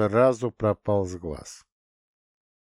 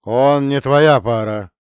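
slow, louder, final; cutting off; 4 semitones higher, 11 dB louder, slower than usual. A narrator's reading. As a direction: cut her off flatly. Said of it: "отрезал Орхидем". (отрезал, громко и медленно)

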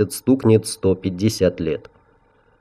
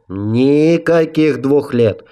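hissed refusal; 5 semitones higher, much slower than usual. A narrator's reading. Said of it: "прошипел Асигал".

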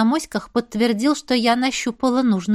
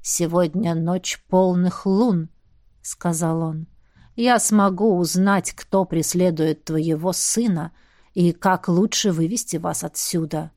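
put-on slow old man voice; 5 semitones lower, slower than usual. Old shaman speaks.

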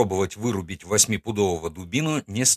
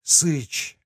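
forced out under pressure; 3 semitones higher, much slower than usual. Acted. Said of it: "выдавил он".

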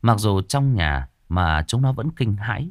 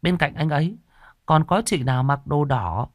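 put-on child confiding; 9 semitones higher than usual. A narrator's reading. Boy tells grandma about a scary woman in red, lightly confiding. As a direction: confide lightly in a raised little-boy pitch. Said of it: "Thằng Hùng thì thầm với bà".

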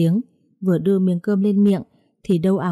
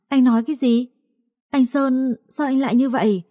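acted higher-pitched dismay; shocked disbelief; 6 semitones higher than usual. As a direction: question your husband in lightly acted shock. Wife shocked by husband's confession. (sững sờ, cao giọng trách)

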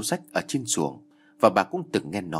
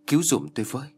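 cry for help; 4 semitones higher, faster than usual. Acted. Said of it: "cố kêu lớn".

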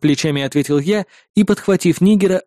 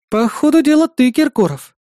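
much higher, snarky teasing; with a note of snark; 9 semitones higher, 3 dB louder than usual. A narrator's reading. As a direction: needle him sweetly. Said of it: "с ноткой ехидства произнесла напарница".

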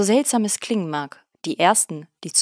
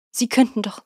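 'könnten' pressed, higher and louder, falling at the end; indignant insistence; 5 semitones higher, 3 dB louder than usual. A narrator's reading. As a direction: insist the ants really could. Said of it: "seine Empörung auszudrücken".

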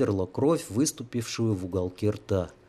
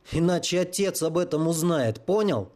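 angry threat; 6 semitones higher than usual. Acted. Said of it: "тяжело дыша заорал Сергей".

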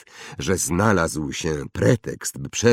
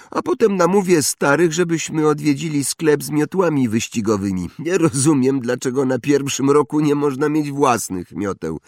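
high, loud bragging schoolboy; spoiled boasting boy; 8 semitones higher, 5 dB louder than usual. Acted. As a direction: show off like a rich brat. Draco boasting, much higher. (chłopiec przechwala się, wysoko i głośno)

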